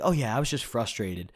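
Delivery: offhand retold apology; nonchalant. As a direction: imitate a roommate brushing off his outburst. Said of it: "he just nonchalantly apologizes".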